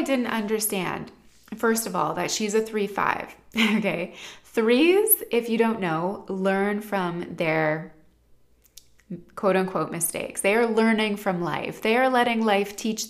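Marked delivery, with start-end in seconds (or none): none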